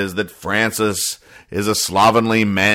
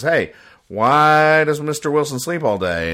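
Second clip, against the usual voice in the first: put-on curious kid; 6 semitones higher than usual. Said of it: "talks to Missus Wilson and says".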